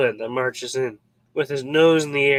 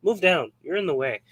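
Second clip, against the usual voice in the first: high, loud brush-off that trails away; a king waving off a guest, loud then fading; dismissive king; 4 semitones higher, 3 dB louder than usual. Retold or imitated. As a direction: shoo someone aside like a bored king. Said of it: "the king's like".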